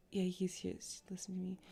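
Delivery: a quick unvoiced whisper. Real, not acted. Reader whispering an aside to the listener. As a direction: lean in and whisper it.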